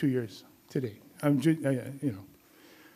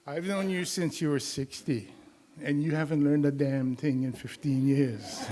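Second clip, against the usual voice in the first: retold retort. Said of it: "And I said".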